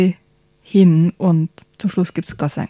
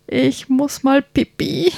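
put-on higher, slower little-boy voice; small whiny prince; 6 semitones higher, slower than usual. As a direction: play the prince as a squirming little child. (kleiner quengelnder Prinz, höher und langsam)

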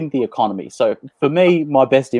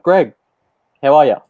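raised, slightly louder hail; imitated matey greeting; 3 semitones higher, 4 dB louder than usual. Boys running into Greg at IGA, imitated matey hail. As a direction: call out to Greg as if spotting him in the shop.

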